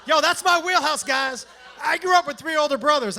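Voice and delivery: loud hyped boast; excited shout. Real, not acted. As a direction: shout it to the crowd.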